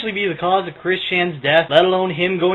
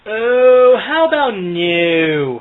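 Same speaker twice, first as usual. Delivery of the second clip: slow, drawn-out scornful refusal; mocking refusal; 6 dB louder, much slower than usual. Real, not acted. Commentator rejects a plea to stop, mocking refusal. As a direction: drag out a sarcastic no.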